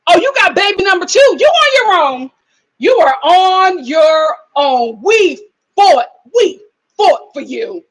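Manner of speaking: loud, high exasperated scolding. Real, not acted. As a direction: tell her off, fed up. Scolding Sarah loudly.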